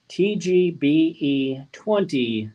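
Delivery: each letter spaced and slow; slow, spelled-out code. Shown as a demonstration. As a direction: read the code out slowly, letter by letter.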